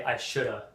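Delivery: SHOULDA as one word, low; casual "shoulda", falling; reduced spoken form. Shown as a demonstration. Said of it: "many people will say".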